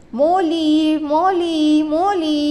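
high, loud calling out for a lost friend. Acted. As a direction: call the name out into the woods. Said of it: "he called".

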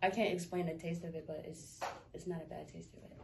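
words round a wad of gum; chewing gum while talking. Real, not acted. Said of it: "I got gum in my mouth".

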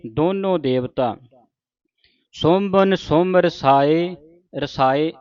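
slow, measured verse reading; scripture recitation. Acted. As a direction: recite word by word, drawing out the line endings. (ਠਹਿਰਾਅ ਨਾਲ ਗੁਰਬਾਣੀ ਪਾਠ)

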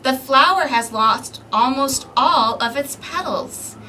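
put-on lively read-aloud for small children; storybook narration. A narrator's reading. Librarian reading a picture book to kids, lively narration. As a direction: read the story to the little ones.

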